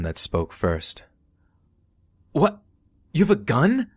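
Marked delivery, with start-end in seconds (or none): 2.3-3.9 shrill, loud, high alarm; panicked cry. Retold or imitated. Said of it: "one of my buddies cries".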